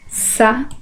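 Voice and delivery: "Satélites" in isolated syllables with long pauses. Shown as a demonstration. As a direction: count out "Satélites" one syllable at a time. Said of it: "Separação de sílabas".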